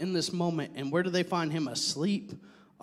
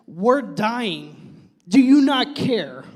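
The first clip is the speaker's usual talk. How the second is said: louder, higher, drawn-out plea; panicked protest; 4 semitones higher, 4 dB louder, much slower than usual. Acted. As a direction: plead as if about to drown. Acts out panicking disciples waking Jesus.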